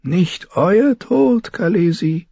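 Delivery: very high, slow character voice; high, measured healer's assurance; reassuring. A narrator's reading. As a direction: slowly assure the frightened queen. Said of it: "versicherte ihr Mirimads Duur".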